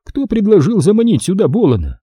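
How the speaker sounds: a sly, indulgent Stone; Stone's silky voice. A narrator's reading. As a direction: voice Stone teasing his partner.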